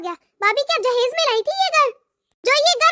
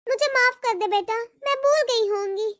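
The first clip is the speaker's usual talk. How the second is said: put-on old mother; 3 semitones lower, 4 dB quieter than usual. Mother apologising humbly.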